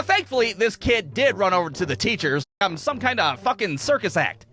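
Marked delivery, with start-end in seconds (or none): none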